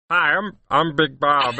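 a hint of a Midwestern cop accent; lightly imitating a Midwestern cop accent. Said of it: "like, Midwestern cop accent".

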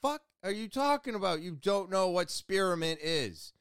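retold bewilderment, starting high and easing down; mind blown. Shop worker inwardly floored by customer's ignorance, incredulous.

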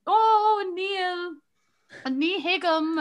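high nonsense Irish-sounding words; mock Irish babble. Girls dodging a stranger, faking high gibberish Irish. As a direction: fake it with gibberish to confuse him. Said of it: "we were like".

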